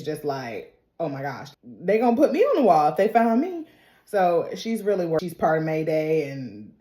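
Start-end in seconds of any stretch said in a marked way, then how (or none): 1.0-3.7 hushed start, rising to louder worry; mild mock freak-out. Daisy fears being found out, mildly panicked. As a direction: lightly imitate a girl getting worried. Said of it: "Daisy is freaking out".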